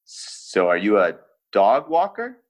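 slow, casual rock-star question; Dave Grohl impression. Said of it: "So Dave Grohl goes".

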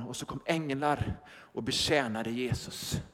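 low, soft and hushed. Acted. Preacher telling of the angels, hushed and low. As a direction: drop the voice for the angels.

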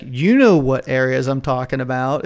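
lightly imitated stump-speech insinuation; Trump. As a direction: lean on "know" as a pointed hint. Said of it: "that's the way he says it on his stump speech".

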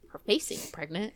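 low, understated retold line; deadpan muttered comeback. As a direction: toss it off low and dry. Calm retold repeat of catchphrase.

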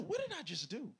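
mild startled regret; dismayed self-questioning. Retold or imitated. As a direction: ask yourself in acted disbelief. Retells his moment of regret.

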